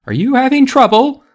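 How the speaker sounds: high-pitched call from offstage. A narrator's reading. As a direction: call over to someone on stage. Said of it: "called from the side of the stage".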